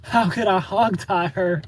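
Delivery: baffled question. Real, not acted. Reading a viewer's comment aloud, slow and incredulous. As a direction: ask it as if it's absurd. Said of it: "He even knows how to hog tie".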